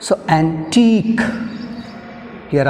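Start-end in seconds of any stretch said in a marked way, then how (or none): 0.4-1.2 antique, slowly, with a long stressed TEEK; stress on last syllable. Shown as a demonstration. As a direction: draw out the second syllable of antique. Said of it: "on last syllable".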